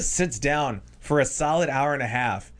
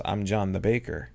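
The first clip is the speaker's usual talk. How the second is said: deadpan in character; 3 semitones lower than usual. Retold or imitated. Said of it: "And he goes".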